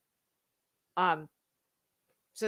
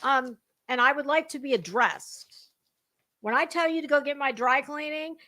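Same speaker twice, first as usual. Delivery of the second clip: Anna Wintour impression; 4 semitones higher than usual. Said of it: "I am Anna Wintour".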